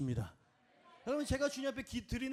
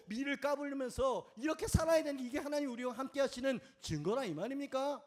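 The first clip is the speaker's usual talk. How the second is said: higher-pitched incredulous retort; mock-indignant complaint, pitched up; sarcastic challenge; 4 semitones higher than usual. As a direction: throw the questions back scornfully. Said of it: "비아냥거리는 거예요".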